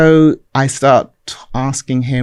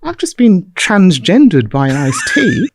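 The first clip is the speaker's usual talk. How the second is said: laughing; 5 semitones higher, slower than usual. Retold or imitated. Punchline, laughing.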